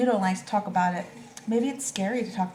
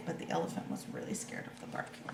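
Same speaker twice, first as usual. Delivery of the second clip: whispering; 3 semitones lower, 9 dB quieter than usual. A narrator's reading. Narrator drops to a whisper.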